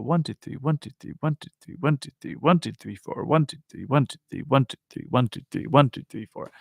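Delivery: counted in groups of three, soft; lilting soft count in threes. Shown as a demonstration. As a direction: tap out one-two-three softly. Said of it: "I just love that".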